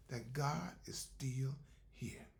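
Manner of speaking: slow breathy whisper of reassurance; hushed slow whisper that God is near. Real, not acted. Preacher drops to whisper.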